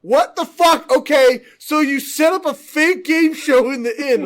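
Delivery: high, loud mock-incredulous yell; annoyed game master. Player imitating the DM reacting to a critical twenty, incredulous yell. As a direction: shout it like an exasperated game master. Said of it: "he's so annoyed by half the shit".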